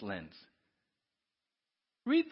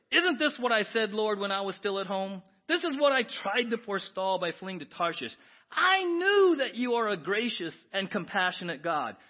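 raised, pleading complaint to God; Jonah's angry prayer; 5 semitones higher, 8 dB louder than usual. Acted. Preacher voicing Jonah complaining to God, raised and indignant. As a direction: protest loudly at God's mercy.

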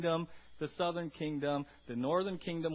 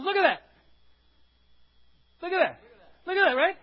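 loud, high excited cry; excited exclamation; 12 semitones higher, 10 dB louder than usual. Retold or imitated. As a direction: point it out, all worked up. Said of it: "He goes".

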